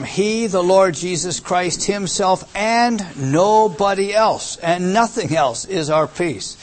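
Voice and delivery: slow, weighty emphasis on each phrase; drawn-out stress on "himself", "nobody else" and "nothing else"; emphatic. Shown as a demonstration. Preacher expounding an intensive pronoun to listeners, emphatic. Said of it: "a very emphatic form".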